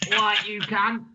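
mock Cockney insult; Cockney accent. Shown as a demonstration. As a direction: try a Cockney audition line. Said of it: "someone who can do a Cockney accent".

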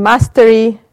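ordinary delivery

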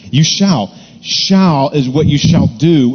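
"shall" hit firmly and slowly; stress on shall. Shown as a demonstration. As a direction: press "shall" as a command. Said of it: "shall answers the meaning".

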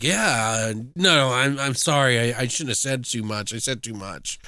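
backtrack bashfully, dropping away at the end; shy apology. Acted. Fake friend apologizes for saying too much, mildly shy. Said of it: "shy kind of voice".

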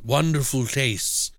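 put-on a slick old professor luring a guest in; sly professor voice. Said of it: "he's like".

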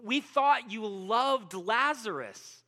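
hurt protest. Retold or imitated. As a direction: accuse him with hurt, building. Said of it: "his disciples are thinking".

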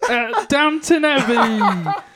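plummy upper-class frog puppet voice; a frog puppet speaking like English gentry; posh Kermit voice. Pretend. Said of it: "practice my Posh Kermit".

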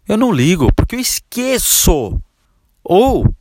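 high, slow, careless customer voice; mock customer. Customer explaining he forgets to call, offhand. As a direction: shrug it off as the client.

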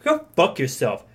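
hammed-up angry woman, loud climax on how dare you; mock her outrage, building to a shout; imitating an offended match telling him off, mock fury; retold furious rant. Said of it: "she got so fucking pissed".

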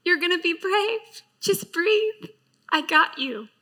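God whispering comfort to his daughter; tender reassurance. Retold or imitated. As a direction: reassure her gently, almost whispering. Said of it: "of him saying".

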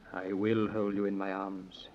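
slow, hushed lover's whisper; tender whisper. Acted. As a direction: breathe it softly, slowly. King yields to her.

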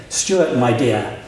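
put-on slow, lightly Italian-accented greeting; a hint of a charming Italian, drawn out. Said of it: "in his charming Italian accent".

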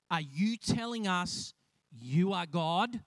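slow, mildly affronted challenge; upset Pharisees. Acted. Upset Pharisees challenging Jesus' claim, mildly indignant. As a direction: question it slowly with mock disbelief. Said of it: "the Pharisees got upset".

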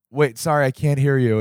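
lightly acted confused apology; puzzled bartender. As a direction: politely ask a customer to repeat. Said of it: "John being like".

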